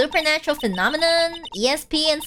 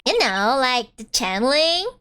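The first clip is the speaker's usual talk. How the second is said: put-on Valley Girl accent; 3 semitones lower than usual. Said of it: "I get to use my Valley Girl accent".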